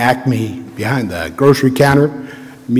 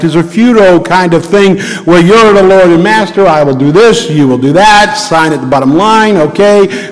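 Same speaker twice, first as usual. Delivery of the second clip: preaching; 3 semitones higher than usual. Acted. Acting out covenant contract.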